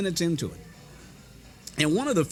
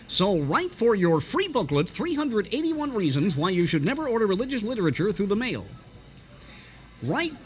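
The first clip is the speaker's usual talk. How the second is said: preacher's offer with a high sudden "Write"; imitating Garner Ted Armstrong's sign-off; radio preacher sign-off; 3 semitones higher than usual. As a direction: push the booklet like a radio evangelist. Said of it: "give the address to write to so quickly".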